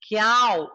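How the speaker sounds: loud "que ao", vowels fused into one syllable; elision demo. Shown as a demonstration. Teacher showing two vowels coinciding, "que ao" said as one. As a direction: punch out "que ao" as a single joined sound. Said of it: "eu já tenho uma elisão".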